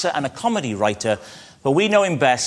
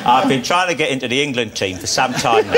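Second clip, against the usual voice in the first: poor Beckham impression; 2 semitones lower than usual. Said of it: "I was doing a poor David Beckham".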